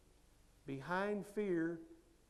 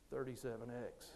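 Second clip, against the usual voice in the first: in unison; 8 semitones lower, 9 dB quieter than usual. Retold or imitated. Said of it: "in unison we said".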